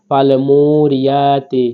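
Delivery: slow, drawn-out Quran recitation; measured Quranic recitation. Shown as a demonstration. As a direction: chant it slowly like tajweed practice. Reciting the verse.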